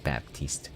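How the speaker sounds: "Baptiste" said bap-TEEST, with an audible p; P sounded in Baptiste. Shown as a demonstration. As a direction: pronounce the p in "Baptiste". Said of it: "That's how me and all my friends were pronouncing it".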